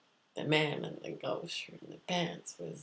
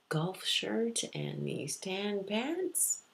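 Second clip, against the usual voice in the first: drawn-out; 3 semitones higher, much slower than usual. Retold or imitated. Acts out the nagging picture.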